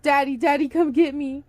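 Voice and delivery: put-on high, loud child's cry; a small boy crying out for his father; child calling. A narrator's reading. Trapped son calling up to his father, high child's cry.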